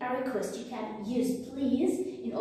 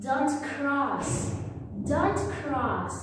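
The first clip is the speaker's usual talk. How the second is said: "Don't cross" with both words stressed; warning intonation; 2 semitones higher, slower than usual. Shown as a demonstration. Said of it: "all the words in warning are stressed".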